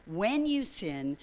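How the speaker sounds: When you sin, said slowly and deliberately; stress on when. Shown as a demonstration. Preacher correcting if to when, slowly. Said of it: "let's delete the word if".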